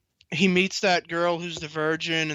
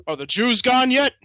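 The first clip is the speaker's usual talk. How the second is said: Walt Disney voice; 7 semitones higher, 6 dB louder than usual. Retold or imitated. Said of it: "and he goes".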